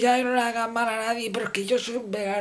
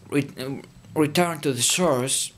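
slow, low mystic intoning; mock mystical; 6 semitones lower, slower than usual. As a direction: intone it like a guru. Mystical aside in English.

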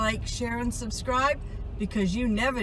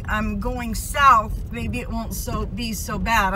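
on a bumpy road. Real, not acted. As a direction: voice jolted by road bumps. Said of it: "I'm sorry for the bumps".

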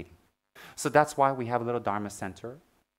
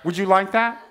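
teasing with a laugh, higher; laughing tease; 4 semitones higher, 5 dB louder than usual. Real, not acted. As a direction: laugh as you tease the student.

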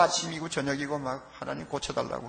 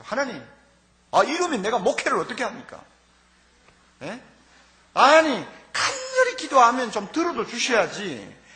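exasperated protest, louder and higher on the last words; frustrated complaint to God; 7 semitones higher, 5 dB louder than usual. Retold or imitated. Pastor protesting to God over the boy's death, exasperated. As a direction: argue with God, half pleading, half scolding. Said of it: "원망이 나올 정도로 답답했어요".

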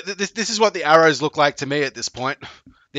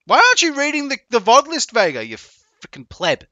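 mock scolding; 8 semitones higher, 5 dB louder than usual. Scolding viewer Vega.

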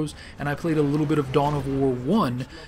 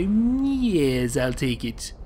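eager greedy gamer grabbing the deal; much slower than usual. Acted. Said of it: "that's my greedy gamer voice".

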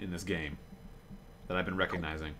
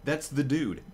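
excited; 8 semitones higher than usual. Real, not acted. Excited recognition continues.

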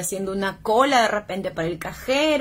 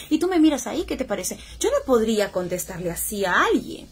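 normal talking voice

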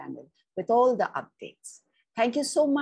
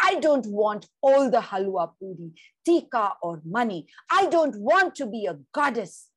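put-on louder, higher defiant child's cry; child screaming; 3 semitones higher, 5 dB louder than usual. Girl refusing the goddess rituals to the family, defiant scream. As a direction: yell it as you back against the wall.

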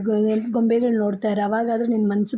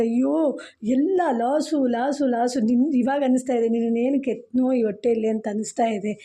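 mild mother's lament; 3 dB quieter than usual. Acted. Mother laments son's lost money.

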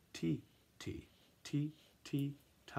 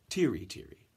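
fast; 3 semitones lower than usual. Shown as a demonstration. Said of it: "But it has to go fast".

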